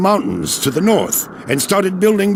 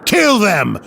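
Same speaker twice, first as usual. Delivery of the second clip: angry order; 4 semitones higher, 4 dB louder than usual. Acted. Battle order against Volstagg's men.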